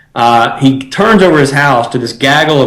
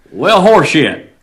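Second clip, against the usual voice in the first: southern accent; 3 semitones higher, much slower than usual. Shown as a demonstration. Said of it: "in your finest southern accent, would you say horse shit?".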